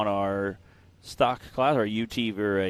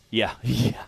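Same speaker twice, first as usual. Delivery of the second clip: ordinary talk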